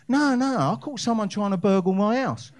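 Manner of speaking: loud, high punchline delivery; emphatic retort. Retold or imitated. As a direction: hit the punchline hard.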